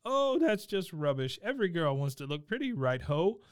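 lightly voiced, high, jolly British gentleman; a hint of a pompous old English gent; posh gent impression. Retelling the puppet gentleman to a co-host, lightly voiced jolly Brit. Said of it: "Sir Reginald".

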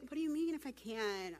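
imitating a too-meek response; mock mild question. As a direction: say it lightly, without any bite. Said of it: "He's not gonna be like".

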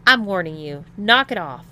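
loud, firm threat; demanding warning. A narrator's reading. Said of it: "demanded Tom".

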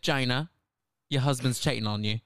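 bad Australian accent slipping into Cockney; Cockney-sliding accent. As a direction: attempt Australian and land in Cockney. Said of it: "I just went Cockney".

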